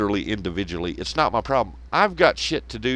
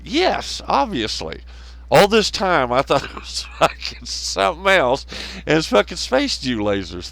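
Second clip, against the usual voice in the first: sarcastic, higher, wide-eyed agreement; mock awed believer; 4 semitones higher than usual. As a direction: play the gullible fan who just got enlightened. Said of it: "And you're like".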